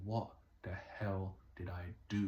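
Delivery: slow, drawn-out cry of regret, only lightly acted; a touch of anguished wail, slowed down; mild mock anguish. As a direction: voice a despairing man, understated. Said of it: "looking up to heaven and crying and saying".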